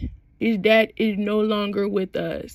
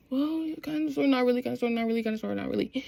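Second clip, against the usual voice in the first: retold hedging; 6 dB quieter, much faster than usual. Retold hedging reply, trailing softer.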